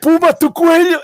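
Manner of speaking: high strained dying cry; dying gasp call. Pretend. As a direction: call out like on your deathbed. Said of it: "yo voy a decir a, eh, Gus así".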